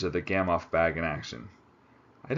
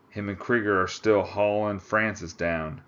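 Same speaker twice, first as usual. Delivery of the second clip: Texas drawl; 2 semitones higher, 3 dB louder than usual. Acted. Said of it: "the Texan drawled".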